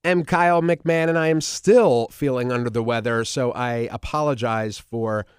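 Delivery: stuffy, nasal voice from a cold. Real, not acted. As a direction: talk through a blocked nose. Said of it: "nasally voice and weird voice".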